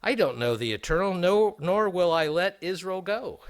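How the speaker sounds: mock-haughty Pharaoh, lightly acted, rising at the end; deriding, condescending. Pharaoh answering Moses and Aaron's demand, deriding and condescending. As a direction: look down on the very question with mild scorn. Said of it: "condescending voice tone".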